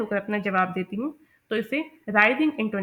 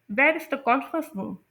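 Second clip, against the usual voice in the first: slow, pitch falls on room; falling wh-question; 3 semitones higher, much slower than usual. Shown as a demonstration. Teacher models wh-question with falling end. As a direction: ask it, then drop down on room. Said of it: "pitch जो है at the end fall कर रही है".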